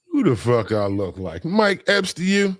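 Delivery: high mock-indignant jab; mock outrage. Real, not acted. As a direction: sound playfully offended. Mock indignation at joke request.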